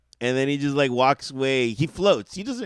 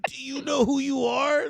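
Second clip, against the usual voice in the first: higher, breathless fan awe; starstruck gush; 7 semitones higher than usual. Retold or imitated. Fan meeting a legend in a hallway, starstruck and high. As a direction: ask it like a dazzled fan. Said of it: "I was like".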